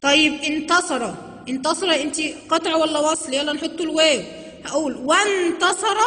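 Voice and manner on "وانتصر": slow "وانتصر" as wan-tasara; "وانتصر" with no glottal stop; alef left silent. Shown as a demonstration. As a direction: join wa straight to n in "وانتصر". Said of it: "الألف دي ما اتنطقتش".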